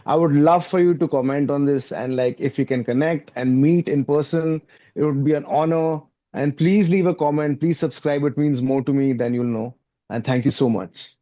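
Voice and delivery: upbeat YouTuber outro voice; lightly hyped creator sign-off. Pretend. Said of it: "I'm gonna give my YouTube voice for this".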